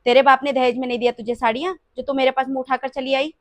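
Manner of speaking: loud mocking tirade; sarcastic scolding. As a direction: sneer and scold her greed. Mother-in-law mocks and scolds bahu. (ताना मारती गुस्से वाली डाँट)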